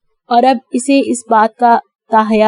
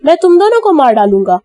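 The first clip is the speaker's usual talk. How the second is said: 1 villain threat; 5 semitones higher, 3 dB louder than usual. A narrator's reading.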